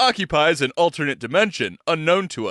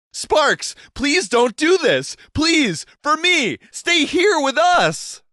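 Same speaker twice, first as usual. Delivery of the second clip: high, loud, slow desperate pleading; out of breath; 13 semitones higher, 4 dB louder, slower than usual. A narrator's reading. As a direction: beg breathlessly to make him stay. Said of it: "Liz appeared out of breath".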